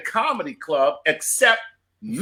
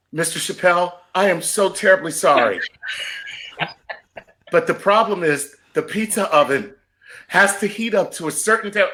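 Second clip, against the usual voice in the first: imitated apologetic employee; 2 semitones higher than usual. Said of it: "he goes like this".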